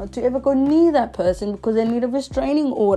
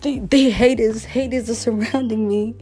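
louder, hammed-up diva complaint; be the persecuted star; mock paranoid drama; 2 semitones higher, 4 dB louder than usual. Mocking herself about the haters, hammed-up diva. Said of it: "I'm like".

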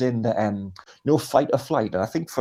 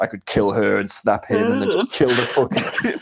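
mild Terminator voice; 4 dB louder than usual. Retold or imitated. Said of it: "like when the Terminator".

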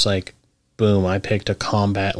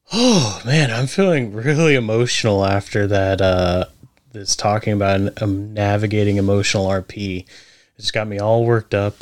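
hammed-up emotional. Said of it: "so corny".

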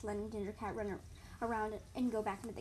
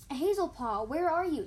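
loud, raised searching call; high, loud kitten call; yelling; 6 semitones higher, 9 dB louder than usual. A narrator's reading. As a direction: yell out for someone missing. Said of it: "Ginger Kit yelled".

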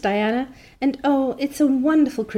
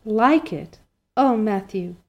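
overjoyed Anne; 2 semitones higher than usual. Acted. Anne overwhelmed with joy.

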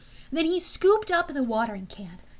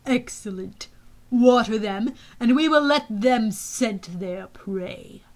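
menacing general; 3 dB louder, slower than usual. Acted.

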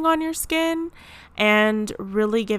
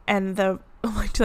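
voice cracking. Real, not acted. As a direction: voice cracks mid word. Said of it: "how my voice just cracked".

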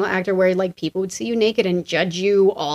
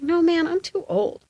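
retold protest; 9 semitones higher, 3 dB quieter than usual. Retold refusal of a role.

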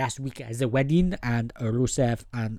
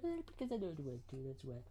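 muttered retort; 18 dB quieter than usual. Retold or imitated. Quoting self, quiet.

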